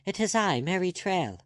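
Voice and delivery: high, loud call to the window. Acted. Girl calling up to Arabella at the window, loud call. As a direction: call up, naming herself. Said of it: "she called".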